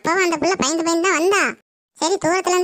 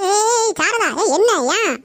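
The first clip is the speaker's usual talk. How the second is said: calling out; 4 semitones higher, much slower than usual. Acted. Neighbour breaks into the quarrel.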